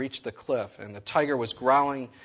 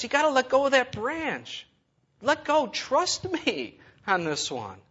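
voice of God; 11 semitones higher than usual. Acted. God voiced telling man let go.

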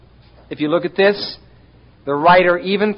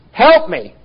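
"Help me" cried high and loud; desperate shout; 8 semitones higher, 7 dB louder than usual. Shown as a demonstration. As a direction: yell for rescue. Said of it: "You scream".

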